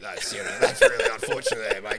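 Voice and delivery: lightly voiced friendly Gil, a bit laughing; a hint of a kindly Gil, mate-ish; nice Gil voice. Friend mimics Gil being nicely sorry. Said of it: "in his nice Gil voice".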